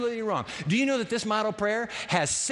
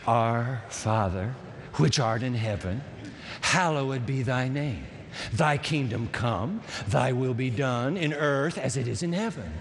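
leading prayer; 3 semitones lower than usual. Acted. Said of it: "say it with me".

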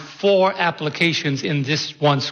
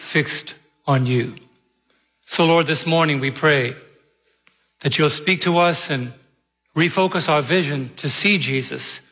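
prayer. Acted. Pastor praying before the sermon, reverent and unhurried. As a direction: pray over the congregation, unhurried.

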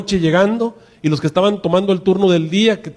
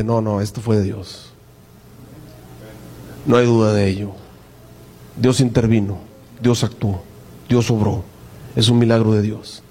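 quiet conviction; 8 semitones lower, 3 dB quieter than usual. Acted. Believer firmly affirming a miracle.

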